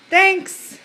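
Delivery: high sing-song. Shown as a demonstration. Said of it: "Can you say thanks?".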